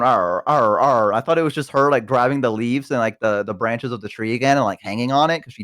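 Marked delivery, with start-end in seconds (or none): 0.0-1.1 low little dog growls, repeated; short growly dog noises; imitated dog growl. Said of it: "I heard her going".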